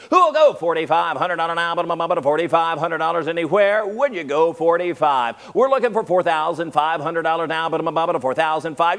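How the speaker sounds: rapid auction call for bids; auctioneer. Acted. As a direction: keep the bids rolling, auctioneer style. Auction chant bidding.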